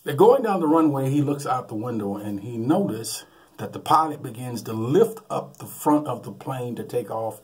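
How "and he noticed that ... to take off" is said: normal talking voice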